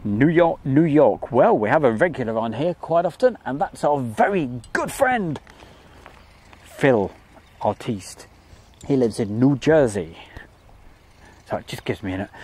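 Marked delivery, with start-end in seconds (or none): 0.7-1.3 mock New York accent, higher and louder; silly New York accent. Host greeting a viewer's city, silly New York accent. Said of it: "do that silly accent of". 1.3-10.2 hammed-up New York accent, raised pitch; silly New York accent. Host introducing a regular from New Jersey, silly New York accent. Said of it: "do that silly accent of".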